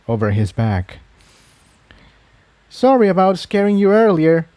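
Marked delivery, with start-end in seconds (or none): 2.7-4.5 higher, lightly voiced apology; a gentle sorry from a mare still on edge; apologetic. A narrator's reading. Incendia apologising to Iron Mane for scaring him. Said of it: "Incendia said apologetically".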